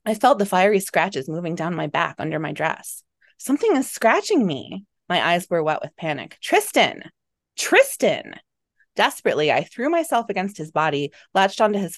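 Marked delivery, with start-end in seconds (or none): 3.4-4.9 raised, alarmed pitch; panicked cry. A narrator's reading. Woman feels invisible scratches, panicked cry. 6.4-8.4 high, urgent call for help; desperate calling. A narrator's reading. Panicked woman to her companion, desperate calling.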